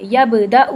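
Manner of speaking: یبدأ with a bounced ب; qalqala. Shown as a demonstration. Teacher showing qalqala in a word. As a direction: let ب echo in یبدأ. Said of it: "ایسے double sound آتی ہے".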